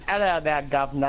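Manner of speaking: a hint of bad stage British; fake British accent. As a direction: imitate someone attempting a British accent. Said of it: "I can try an accent".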